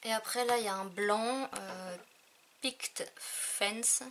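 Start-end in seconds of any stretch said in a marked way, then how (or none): 2.6-4.0 "Picket Fence" said slowly, in a heavy French accent; French-accented English. Real, not acted. Reading an English ink name to her viewers, in a heavy French accent. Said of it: "mon accent anglais est tout pourri".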